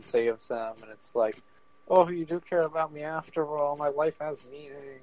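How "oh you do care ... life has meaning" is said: lightly hammed-up, higher-pitched gratitude; a touch of swooning anime drama; mock melodrama. Rescued boy to the friend who saved him, mildly mock-touched.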